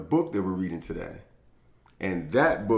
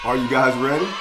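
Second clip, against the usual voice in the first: from a mild ask to a high excited shout; building excitement; 10 semitones higher, 4 dB louder than usual. Acted. Host calling out to the kids before story time, rising to an excited shout. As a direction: rev the kids up, higher and louder each time.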